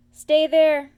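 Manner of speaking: high, loud little call. A narrator's reading. Roo calling to Pooh, high and loud. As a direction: shout it eagerly. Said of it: "called Roo".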